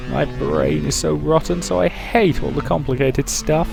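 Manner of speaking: high, slow creepy clown voice. Acted. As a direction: drawl it like a creepy jester. Clown character keeps talking.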